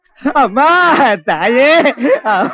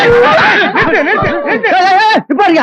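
laughing protest; 5 semitones higher, much slower than usual. Acted. Laughing while they beat someone.

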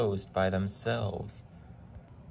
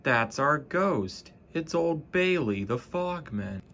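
laughing; 6 semitones higher than usual. A narrator's reading. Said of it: "The fireman laughed".

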